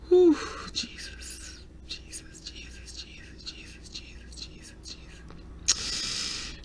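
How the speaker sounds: overwhelmed, breathing the name out; whispered prayer. Real, not acted. Overwhelmed, calling on Jesus.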